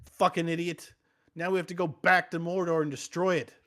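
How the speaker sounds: a mild hammed-up telling-off; mock scolding. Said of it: "And Gandalf says".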